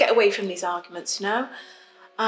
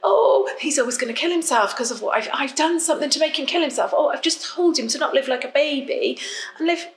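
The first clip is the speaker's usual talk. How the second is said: high, loud wailing whine of the partner; mock hysterical partner; 6 semitones higher, 4 dB louder than usual. Mocking her partner's tearful tantrum to the listener, high and loud. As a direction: mimic his overwrought crying fit, much higher and louder.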